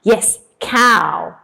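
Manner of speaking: normal talking voice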